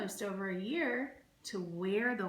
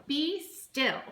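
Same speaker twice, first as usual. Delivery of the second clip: firm, louder command; commanding Max; 6 semitones higher, 4 dB louder than usual. Acted. Reading to a child, Max commands the wild things. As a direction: tame them with one word. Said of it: "Till Max said".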